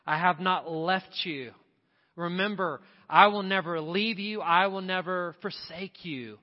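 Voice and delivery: a lightly voiced Jesus, tender then swelling; preacher voicing Jesus promising never to leave. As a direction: speak as Jesus to a hurting listener, building. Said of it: "He's calling your name, saying".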